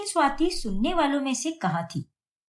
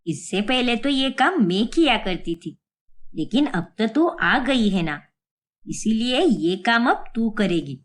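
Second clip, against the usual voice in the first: bossy mother-in-law; 4 semitones lower, 3 dB louder than usual. Acted. Mother-in-law handing over chore.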